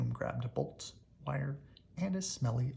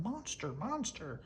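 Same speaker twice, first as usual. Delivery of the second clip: calling after; 6 semitones higher than usual. Acted. Trio calling after Monster.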